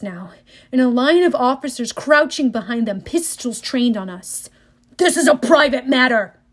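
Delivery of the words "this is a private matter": bellowing. Acted. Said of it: "Ares belled".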